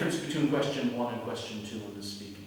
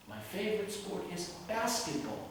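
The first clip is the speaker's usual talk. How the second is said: "basketball" lifted with rising intonation; 4 semitones higher, 6 dB quieter than usual. Shown as a demonstration. Teacher models a direct answer, rising intonation on "basketball". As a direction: pitch up on "basketball" to make the answer clear. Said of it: "Notice how the intonation is rising".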